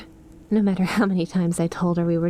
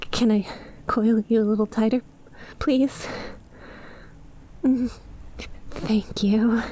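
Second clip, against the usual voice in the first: whispering; 3 semitones higher than usual. Acted. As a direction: breathe it right against the ear. Cuddling close, asking softly.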